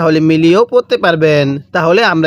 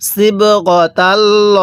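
slow, drawn-out tajweed chant; Quran recitation; 2 semitones higher, much slower than usual. Shown as a demonstration. Teacher recites the verse for students, slow tajweed chant. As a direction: intone each syllable slowly like a reciter. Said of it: "কিভাবে পড়ব?".

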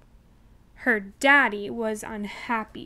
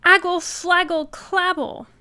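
put-on high, loud baby babble; toddler babble; 5 semitones higher, 5 dB louder than usual. A narrator's reading. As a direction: babble like a little child. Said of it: "Trixie turned to her daddy and said".

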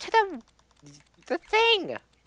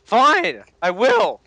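mock angry shout; 4 semitones higher, 10 dB louder, much slower than usual. Mock quarrel over car.

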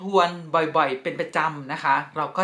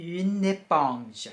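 slow teaching; 2 semitones higher, much slower than usual. Shown as a demonstration. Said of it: "อ่านว่า".

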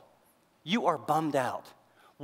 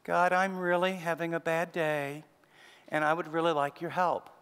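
mild polite prayer. Retold or imitated. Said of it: "This isn't like".

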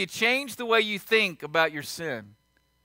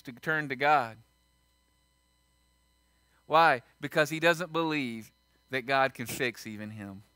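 heartbroken; 5 semitones lower, 4 dB quieter than usual. Acted. Heartbroken confession.

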